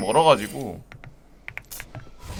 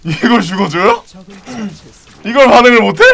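loud high disbelief; incredulous yelling; 8 semitones higher, 11 dB louder than usual. Real, not acted. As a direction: shout in outraged surprise. Disbelief at teammate's play.

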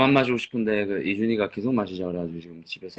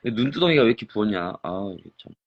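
tipsy, slurred speech; 2 semitones lower than usual. Real, not acted. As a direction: talk like you've had too much. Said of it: "지금 많이 취하신 것 같아요".

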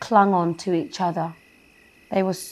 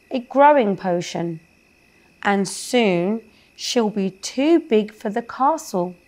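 pleading fairy; 3 semitones higher than usual. Acted. Zoe asking the troll for help, higher pleading voice.

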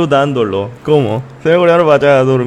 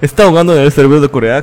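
fast, louder quizzing voice; mock interviewer; 6 dB louder, much faster than usual. Streamer voicing a viewer questioning him, fast loud quiz. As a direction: rattle off the question like a pushy fan.

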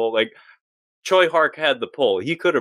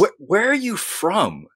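movie impression; 8 semitones higher, slower than usual. Acting out a movie scene.

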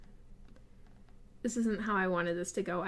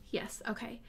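whispered aside; 10 dB quieter than usual. Real, not acted. Self-directed aside.

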